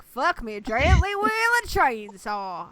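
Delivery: slow, drawn-out redneck drawl; redneck accent. Shown as a demonstration. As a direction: stretch every vowel like a redneck. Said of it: "in a redneck accent".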